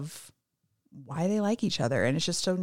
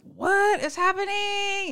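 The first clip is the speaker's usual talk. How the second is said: disbelief; 13 semitones higher, slower than usual. Real, not acted. Host reacting to swoony scene.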